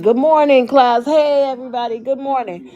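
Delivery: cheery teacher greeting. Retold or imitated. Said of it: "you're smiling".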